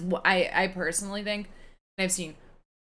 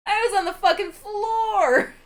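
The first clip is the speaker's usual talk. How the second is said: high-pitched, louder words through real laughter; laughing hard; 14 semitones higher, 7 dB louder, slower than usual. Real, not acted. Cracking up after telling her co-host the Pink Panther dog joke, high and laughing. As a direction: barely get it out for laughing.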